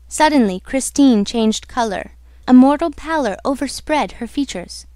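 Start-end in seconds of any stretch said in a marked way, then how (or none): none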